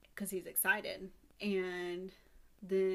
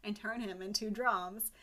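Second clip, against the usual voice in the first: pushy haggling; 6 dB louder than usual. Retold or imitated. Buyer arguing price.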